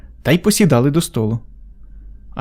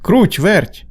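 higher-pitched storybook call; a mild rooster's holler, lightly acted; 6 semitones higher than usual. A narrator's reading. Rooster summons the two little mice, calling out. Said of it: "став гукати півник".

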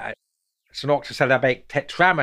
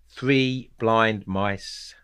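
very slow, evenly stressed chant; nursery rhyme, drawn out but held back from singing; nursery rhyme rhythm; much slower than usual. Shown as a demonstration. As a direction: give each word its own long beat. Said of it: "oh, so I won't sing".

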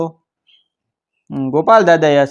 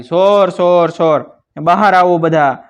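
raised, louder cry of alarm; louder alarm shout; 3 semitones higher, 4 dB louder than usual. A narrator's reading. Old watchman rousing the village against thieves, shouting. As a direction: call out to rouse everyone. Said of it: "વધુ જોરથી બૂમ પાડી".

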